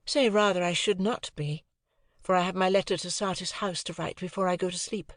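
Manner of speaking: a hint of a haughty young lady; Estella. Estella voiced, higher.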